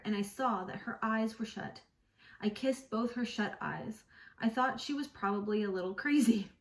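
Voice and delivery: steady, even read-aloud narration; calm audiobook reading; story reading. Acted. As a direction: read the novel passage to listeners. Reads novel passage aloud.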